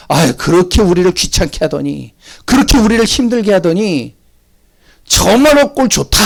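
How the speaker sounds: rising, gleeful jeer; gloating mockery. Preacher voicing unbelievers gloating, gleeful jeer. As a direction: gloat over the fallen. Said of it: "즐거워하면서요".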